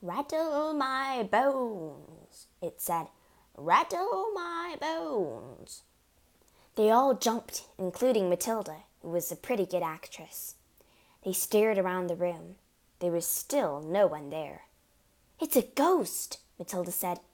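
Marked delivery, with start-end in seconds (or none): 0.0-2.5 high, very slow ghostly wail; soft, spooky. A narrator's reading. Hidden parrot spooks the family, soft ghostly wail. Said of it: "soft and spooky this time". 3.6-5.8 high, very slow ghostly wail; soft, spooky. A narrator's reading. Hidden parrot spooks the family, soft ghostly wail. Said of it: "soft and spooky this time". 15.4-16.4 high cry of alarm; feigned alarm. A narrator's reading. Matilda, a good actress, scares family, alarmed.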